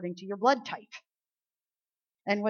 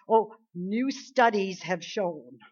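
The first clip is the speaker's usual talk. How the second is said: slow, drawn-out mock announcement; mocking media voice; slower than usual. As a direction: parody a pompous news claim.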